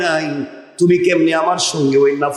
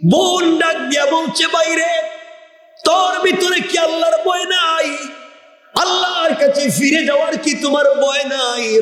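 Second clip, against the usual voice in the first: impassioned preaching; 9 semitones higher than usual. Acted. Preacher voicing a sister's rebuke to her brother, impassioned high cry. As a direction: preach it high and ringing, stretching the line endings.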